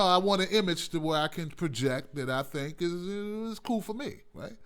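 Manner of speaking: normal talking voice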